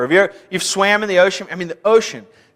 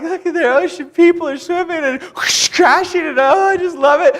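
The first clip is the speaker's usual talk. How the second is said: excited; 10 semitones higher than usual. Retold or imitated. Awed Kansas boy in ocean.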